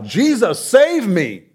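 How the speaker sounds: high, loud panicked cry of save me; yelling for help. Retold or imitated. Peter sinking in the storm, crying out to Jesus, loud and panicked. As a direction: shout it like you're going under. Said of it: "He yells out".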